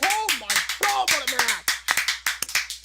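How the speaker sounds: breathless, slow and awed; panting after a long call; out of breath. Real, not acted. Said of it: "I'm out of breath just calling that".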